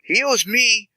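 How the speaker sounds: high, slow comic whine; comic high aside. Acted. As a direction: squeak it out like a petty grudge. Huck chiming in, comic.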